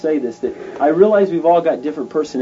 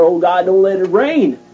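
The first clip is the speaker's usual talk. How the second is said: earnest cry; 3 semitones higher, 5 dB louder than usual. Acted. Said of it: "he earnestly starts crying out".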